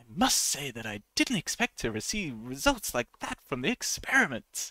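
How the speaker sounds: genuine, heartfelt astonishment with animated, swooping pitch. Teaching how incredulity sounds and first giving a sincere example, sincere surprise. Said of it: "someone expressing surprise sincerely".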